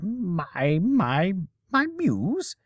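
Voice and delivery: high, stuttering disbelief; stammering surprise. Acted. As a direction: trip over the words in shock. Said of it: "Shakespeare gaped at her".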